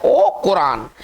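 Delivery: "ओ कुरान" said slowly with the final t silent; correct pronunciation. Shown as a demonstration. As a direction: demonstrate "ओ कुरान" slowly, long last vowel, no T. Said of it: "इसका जो उच्चारण है".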